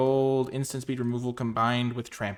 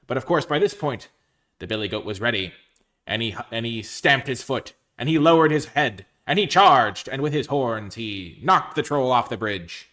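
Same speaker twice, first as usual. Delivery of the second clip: dramatic build; 8 dB louder than usual. A narrator's reading. Dramatic story climax.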